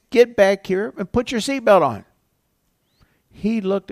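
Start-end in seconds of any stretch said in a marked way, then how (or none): 0.1-2.0 put-on firm, louder stern command to a child. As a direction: say it like a grandfather laying down the law. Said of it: "I said in a very stern voice".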